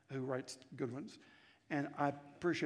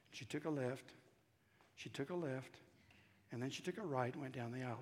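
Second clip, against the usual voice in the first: normal talking voice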